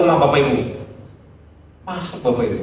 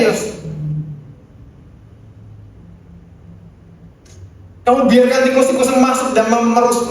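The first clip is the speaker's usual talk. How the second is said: a hint of a divine voice questioning Yos; God speaking; 8 semitones higher than usual. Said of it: "Tuhan bilang begini".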